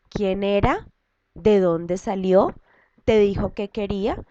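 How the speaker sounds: a run of short demonstrated questions; question intonation. Shown as a demonstration. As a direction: lift each question, "era", "salió", "quería". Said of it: "cada uno de los signos de interrogación".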